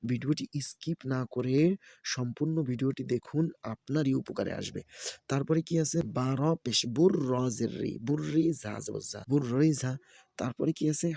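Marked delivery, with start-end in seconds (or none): 6.2-9.9 rhythmic letter-by-letter chanting; Quran-primer teacher's recitation; spelling drill recitation. Shown as a demonstration. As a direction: spell each syllable, then blend them. Spells out Arabic syllables for learners.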